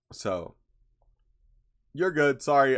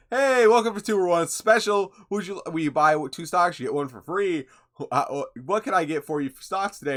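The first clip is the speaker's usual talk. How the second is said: higher, louder robotic sales pitch; robot impression; 7 semitones higher, 6 dB louder than usual. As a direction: play a chirpy scam bot pushing stocks. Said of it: "Sounds perfectly human".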